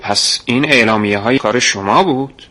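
mildly eager question, a little lifted; light excitement at the discovery; excited. Acted. Boy excitedly asks the man about the leaflets, mild thrill. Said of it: "هیجان زده سر بلند کردم و پرسیدم".

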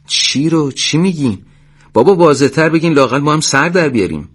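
high-pitched, impatient questioning; exasperated confusion. Acted. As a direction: press the doctor for a clearer answer. (پرسش کلافه و گیج)

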